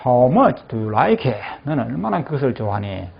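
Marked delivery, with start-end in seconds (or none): 0.1-1.4 How much do you like it? slow with the voice falling at the end; slow falling question; falling tune. Shown as a demonstration. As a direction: let the question sink at the end. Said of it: "끝을 내리게 되어 있습니다".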